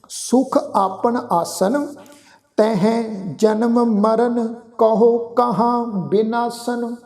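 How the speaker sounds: slow, measured chanting of the verse; scripture recitation. Shown as a demonstration. Sikh teacher recites Gurbani for the congregation, slow and measured. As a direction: recite each phrase slowly and reverently.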